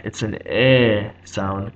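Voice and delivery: "eh" stretched out, between a and e; long "eh" vowel; elongated eh. Shown as a demonstration. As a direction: draw out "eh" slowly. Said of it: "like an elongated eh".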